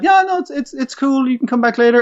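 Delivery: high, light brush-off to the caller; chirpy pretend it's fine; breezy fake okay. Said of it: "she's kinda like".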